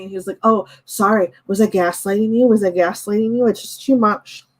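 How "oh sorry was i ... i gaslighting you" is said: mocking. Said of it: "makes fun of me".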